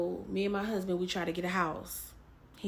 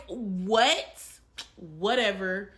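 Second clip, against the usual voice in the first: dismissive; 5 dB louder, much slower than usual. Retold or imitated. Shrugging off God's warning, loud and scoffing. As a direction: wave it away with a scoff.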